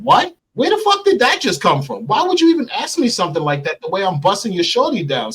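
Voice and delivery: high-pitched indignant outburst; acting out an affronted comeback; retold anger. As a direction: fire back offended and incredulous, pitch jumping up. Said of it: "So I got angry".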